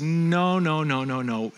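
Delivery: emphatic string of no's, falling at the end; firm, repeated denial; emphatic refusal. Acted. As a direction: refuse firmly, letting the pitch drop away. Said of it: "So Jesus emphatically says".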